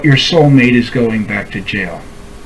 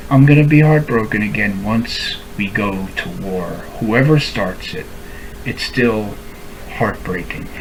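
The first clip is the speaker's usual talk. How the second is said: heartbroken; 5 semitones lower, 6 dB quieter than usual. Real, not acted. Sad confession to former friend.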